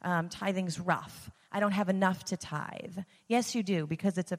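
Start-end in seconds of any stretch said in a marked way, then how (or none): 0.0-3.0 mock whining about money; whiny complaint. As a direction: whine it like a reluctant giver. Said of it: "remove the buttons of".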